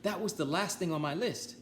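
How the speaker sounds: high, thrilled Toad voice; excited Toad. Acted. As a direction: announce it with relief.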